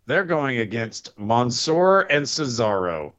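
flat mechanical delivery, slowed down; robot voice. Real, not acted. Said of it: "you turned into a robot there".

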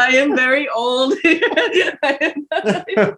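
put-on high laughing old-man voice. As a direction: play a creaky old robber. Mock old robber.

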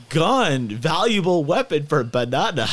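high loud caveman-style broken English; laughing through a loud, high pidgin offer; mock broken English. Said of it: "And you're like".

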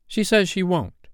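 put-on high-pitched, scandalized boy; mildly shocked child's report; aghast exclamation. A narrator's reading. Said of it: "Nibs exclaimed, aghast at such insubordination".

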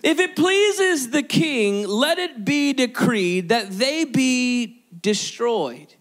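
slow, theatrical British villain; British accent. Acted. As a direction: decree it slowly in a put-on British accent. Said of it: "he had a British accent".

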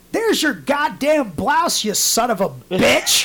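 slow, punched-out mock cursing; retold anger. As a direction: hurl each word slowly, half laughing at the end. Retold throwing shirt back angrily.

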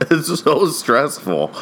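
slow, exasperated words after a laugh; laughing through stress. Real, not acted. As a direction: laugh because you're crying inside. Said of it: "I'm laughing 'cause I'm crying inside".

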